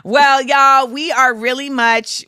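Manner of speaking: loud put-on Southern accent; mock Southern twang. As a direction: launch into a playful Southern accent. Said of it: "I be giving you Southern".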